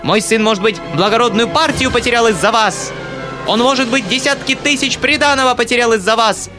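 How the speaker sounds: high, breathless furious tirade; choking with rage. A narrator's reading. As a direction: spit it out choking with anger. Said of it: "задыхаясь от злости". (задыхаясь от злости, высоким голосом)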